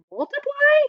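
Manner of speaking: high, surprised question; puzzled question. Acted. Amanda asking the grandmas in surprise. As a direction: ask it in disbelief. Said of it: "I ask".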